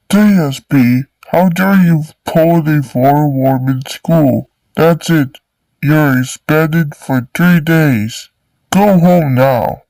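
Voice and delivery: hammed-up telling-off; scolding. Principal scolding student.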